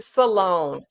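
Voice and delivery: imitating "Salone" with an extra syllable; mimicked mispronunciation. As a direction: echo "Salone" back as suh-LONE. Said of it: "You said Salone".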